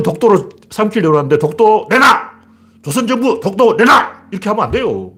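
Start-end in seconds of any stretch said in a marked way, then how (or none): 1.4-2.3 high, punched mock demand; acted high-pitched ultimatum; blunt demand. Acting out an open demand. 2.8-4.3 slow, high mock ultimatum; acted high, drawn-out demand; blunt demand. Acting out an open demand.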